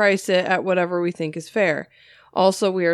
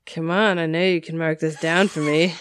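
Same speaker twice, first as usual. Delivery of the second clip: low, smooth sleazy come-on; lightly voiced sleazy flirt; sexy voice; 4 semitones lower than usual. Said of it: "Sleazy customer in sexy voice says".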